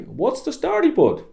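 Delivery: high, broad Dublin "What's the story, bud?"; Dublin greeting. Shown as a demonstration. Host voicing an Irish greeting to a friend, Dublin accent. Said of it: "So you would say".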